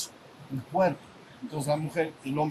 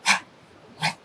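demo shout; 4 dB louder than usual. Shown as a demonstration. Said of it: "hace así".

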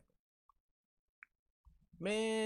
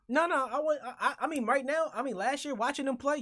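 laughing; 9 semitones higher, 4 dB louder than usual. Real, not acted. Laughing while disagreeing.

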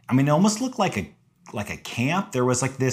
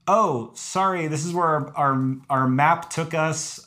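higher, slow, sheepish explaining; retold meek apology; 4 semitones higher, slower than usual. Hiker explaining to angry landowner, meekly apologetic. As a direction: imitate yourself politely placating someone angry.

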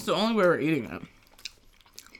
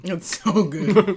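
slow, louder, savoring each word; drawn-out delight; 4 semitones higher, 10 dB louder, much slower than usual. Real, not acted. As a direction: stretch it out with real pleasure. Echoing the praise of fried cheese.

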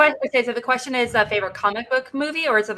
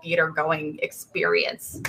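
whispering; 4 semitones lower, 5 dB quieter, slower than usual. Real, not acted. Whispered end of answer.

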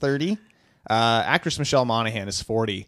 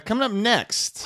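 announcer; 8 semitones higher than usual. Acted. Announcer voice teasing next segment.

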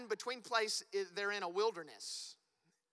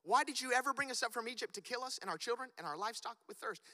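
fast, slightly higher whining accusation; exasperated complaint; 4 semitones higher, faster than usual. Shown as a demonstration. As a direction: act out the grumbling people. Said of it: "But we do the same thing".

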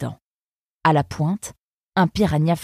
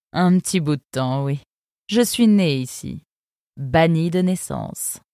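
a cool, sardonic river guard; fox guard's voice. Acted. Eunice sizing up the arrivals, lightly voiced sardonic fox. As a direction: speak down to the newcomers, unimpressed. Eunice about her birth.

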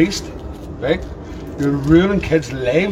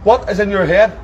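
agitated, higher-pitched challenge; real angry disbelief; 6 semitones higher than usual. Real, not acted. Relative confronts man who texted a child, agitated anger. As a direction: stumble over the repeated question, voice raised in pitch.

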